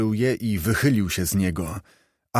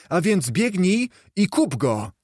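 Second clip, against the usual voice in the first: put-on old man rising in giddy delight; pointing out every corner with glee; elated Scrooge; 7 semitones higher than usual. A narrator's reading. Scrooge touring his room, growing giddier.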